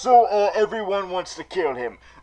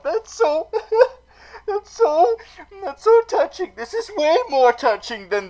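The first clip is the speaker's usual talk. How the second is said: mock gushing; 11 semitones higher than usual. Vlogger gushing to viewers about the touching death, squealing high. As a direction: squeal over how touching it is.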